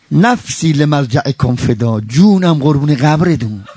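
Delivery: low, slow, tender murmur; slow hushed devotion. Acted.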